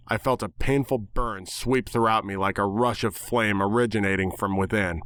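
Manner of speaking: ordinary delivery, nothing marked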